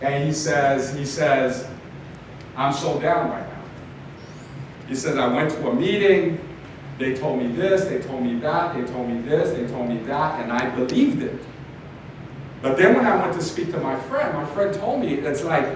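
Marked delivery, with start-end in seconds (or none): 2.6-11.4 lower, soft, dejected confession; deflated husband. Retold or imitated. Husband confiding his disappointment to his wife, dejected. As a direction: let the air out of him.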